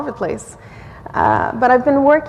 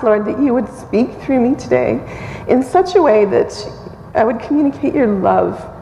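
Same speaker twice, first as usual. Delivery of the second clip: prayer. Real, not acted. Missionary praying over her home church. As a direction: pray aloud to God before speaking. Opening prayer before the sermon.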